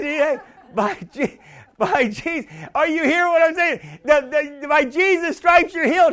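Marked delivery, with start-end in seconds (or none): 4.7-6.1 confession pushed up louder. Shown as a demonstration. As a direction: declare it with more force. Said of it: "has to be louder".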